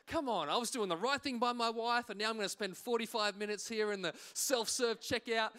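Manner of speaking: mildly exasperated mock complaint; grumpy, frustrated. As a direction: protest like a put-upon shopper. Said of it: "I'm grumpy, I'm frustrated".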